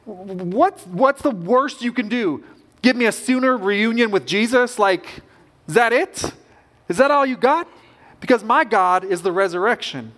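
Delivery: bold, rising challenge to death itself; defiant taunt. Retold or imitated. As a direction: dare death to do its worst. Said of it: "We can be like Paul and say".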